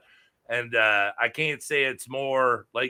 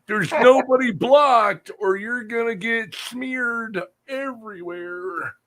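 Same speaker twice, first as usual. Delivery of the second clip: mock stern warning; 10 semitones higher, 7 dB louder than usual. Mock warning to blocking viewer.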